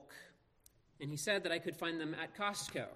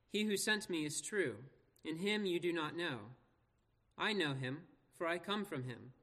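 measured public Bible reading; scripture reading. Acted. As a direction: read the passage out clearly, phrase by phrase. Reads scripture aloud to congregation.

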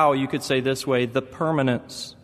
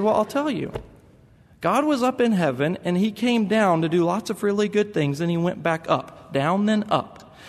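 put-on higher, earnest little boy explaining; voicing his son; 5 semitones higher than usual. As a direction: play a small boy reassuring his sister.

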